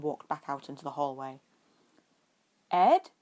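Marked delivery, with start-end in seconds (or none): 2.7-3.1 much higher and louder call; calling out loudly. A narrator's reading. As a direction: call across the house. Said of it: "he called loudly".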